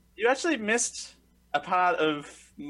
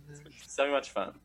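sarcastic; 5 dB quieter, much faster than usual. Real, not acted.

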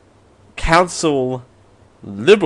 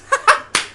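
squeaky high giggle. Real, not acted. Laughing at own misreading.

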